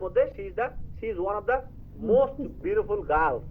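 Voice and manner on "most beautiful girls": slow example. Shown as a demonstration. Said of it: "সকলদের মধ্যে একটা অন্যতম সুন্দর".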